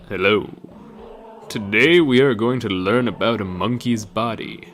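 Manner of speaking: a hint of a man speaking through a cartoon girl; male voice for Dora. Dora on the haunted tape greets the viewer in a man's voice. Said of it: "Her voice was male".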